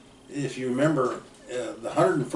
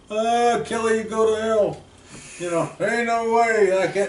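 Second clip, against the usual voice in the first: a scared soldier's refusal, pitched well higher; retold defiant refusal; 10 semitones higher, 4 dB louder than usual. Bilodeau refusing Kelly's order to cross the field, in a higher defiant voice. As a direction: blurt it out, refusing the order flat.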